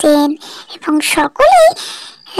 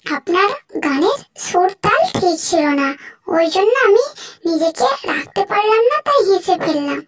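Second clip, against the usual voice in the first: soft princess; 4 dB quieter than usual. Acted. Narrator voices the princess.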